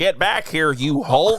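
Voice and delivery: lightly put-on army general shouting; gruff general voice. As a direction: bark it like a military general. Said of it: "I don't know what the voice I'm doing is".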